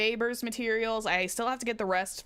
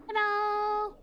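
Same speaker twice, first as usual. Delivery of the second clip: silly; 14 semitones higher than usual. Acted. Streamer greets in silly voice.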